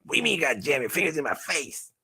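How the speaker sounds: high, rapid-fire protest; indignant puppet. Pretend. Puppet protesting how its maker handles it, indignant. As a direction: squawk back as an affronted toy.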